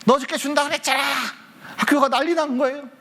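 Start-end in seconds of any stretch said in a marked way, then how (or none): 0.1-1.0 higher-pitched, mildly angry retold demand; mock angry complaint. Friends demanding their promised money back, mock angry. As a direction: imitate cross kids demanding what was promised. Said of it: "막 화를 내는 거야".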